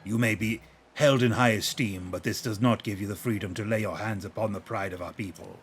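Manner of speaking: a lightly voiced stern guard barking halt. Gerudo guard halting the hero, lightly stern. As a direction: warn off a thief with cold authority.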